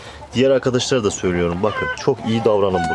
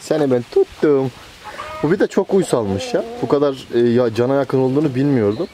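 excited catch; 4 semitones higher, 4 dB louder than usual. Real, not acted. Catching the escaped quail.

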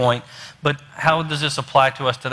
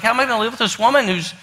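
higher, mildly exasperated inner rant; acted mild frustration, pitched up; a little frustrated; 5 semitones higher, faster than usual. Husband despairing over wife going deaf, a little frustrated. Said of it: "he's getting a little frustrated".

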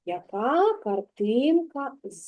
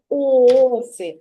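slow calling out; 5 dB louder than usual. Shown as a demonstration. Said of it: "погукай, будь ласка".

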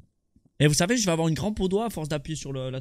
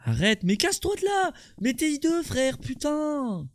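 panicked yell; 10 semitones higher than usual. Real, not acted. Yelling at monster.

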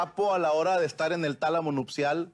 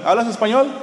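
desperate plea; 5 semitones higher, 9 dB louder than usual. Retold or imitated. Asking passers-by.

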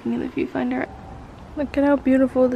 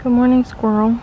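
calling out; 8 dB louder than usual. Real, not acted. Greeting a squirrel outdoors.

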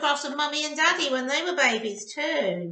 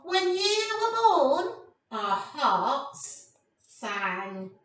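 very slow ending; storybook reading; much slower than usual. Acted. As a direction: let the heart line glow.

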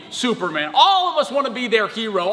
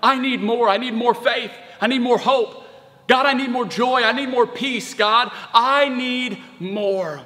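higher, insistent repeated plea; crying out to God; 3 semitones higher, slower than usual. Acted. Preacher modelling a prayer to God, crying out. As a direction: build the plea, then draw out the last one. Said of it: "cry out to God and say".

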